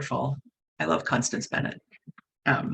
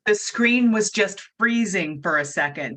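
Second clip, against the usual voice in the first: raised voice; 3 semitones higher, 4 dB louder than usual. Real, not acted. Host repeats herself for Jack, raised voice. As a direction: speak up so he catches it. Repeats for hard-of-hearing listener.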